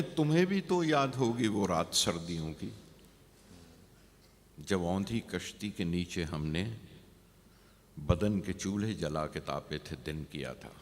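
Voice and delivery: verse lifted on the repeat, falling at the end; poem recitation. Acted. Poet recalls a winter night to the beloved, measured recitation.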